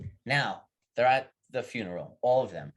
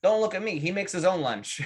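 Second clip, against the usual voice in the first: defensive Polish widow; 6 semitones higher than usual. Acted.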